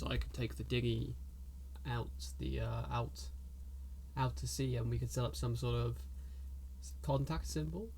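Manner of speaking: very soft, low, hushed voice; whispering NPC. Acted. Pirate suggests rowing out to sea, whispering. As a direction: murmur the plan low and quiet. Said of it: "he whispers, he goes".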